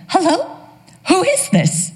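put-on high, wavering old mother on the phone; lightly voiced confused old mother; confused elderly mother. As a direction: play the muddled mom answering.

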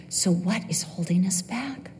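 hushed whispered question. Real, not acted. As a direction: drop to a whisper to draw them in. Rhetorical question to congregation.

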